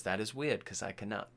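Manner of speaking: low, very soft deadpan reply; imitating a villain's quiet calm; chill. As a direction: say it low and unbothered. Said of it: "just so, like, chill, right?".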